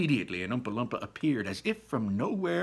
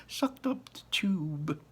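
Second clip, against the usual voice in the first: slow breathy stifled laugh; slow whispered giggle; laughing through it; 6 semitones higher, much slower than usual. Acted. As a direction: fight back a laugh.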